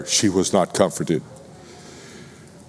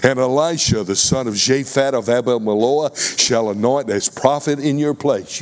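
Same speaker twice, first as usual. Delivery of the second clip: lightly raised, commanding divine voice; voice of the Lord; 3 semitones higher than usual. Retold or imitated. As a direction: speak it as God sending Elijah out. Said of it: "The Lord said to him".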